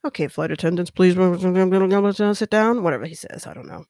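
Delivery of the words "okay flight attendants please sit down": slow, drawn-out captain over the intercom; lightly voiced airline captain; mock pilot announcement. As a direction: do the pilot's cabin announcement, very slowly. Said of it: "the captain's like".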